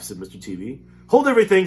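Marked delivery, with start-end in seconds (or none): 1.1-1.7 commanding shout. Acted. Wonka commanding attention.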